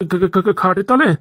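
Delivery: dragged-out stammering question; shocked stammer. Acted. Husband told to sleep under the bed, stammering in shock. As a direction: stutter slowly over the first syllable in disbelief.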